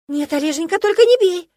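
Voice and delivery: очень высоко и громко, с подвыванием; изобрази перепуганную жертву; наигранные причитания. Acted. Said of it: "запричитала эта стервозина". (громкое высокое причитание)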